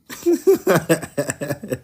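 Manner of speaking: quick run of chuckles; amused chuckle. Real, not acted. Host laughing at the avatar joke, amused chuckle. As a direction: chuckle at your own joke.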